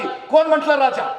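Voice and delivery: high, loud sharp retort; a mother's loud, high, fierce retort. Acted. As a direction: snap back at the king. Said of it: "तशी ताडकन शिवा काशिदांची आई म्हणाली".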